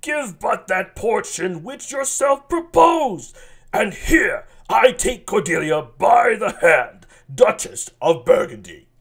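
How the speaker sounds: a light rasp in the voice. Acted. Burgundy making his offer to the king, lightly rasped. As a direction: rasp the words out a little. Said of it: "Let's go with kind of a rasp".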